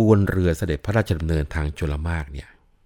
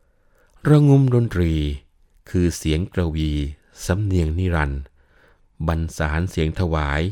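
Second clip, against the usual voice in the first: put-on intoned old verse. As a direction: chant the old verse line by line. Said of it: "ในอนิรุตคำฉันก็จะบอกว่า".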